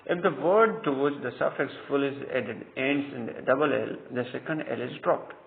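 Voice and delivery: dictating a textbook rule at a very slow pace; slow rule dictation. Acted. Teacher reading the spelling rule to students, slow and deliberate. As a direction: read the rule out slowly and deliberately, word by word.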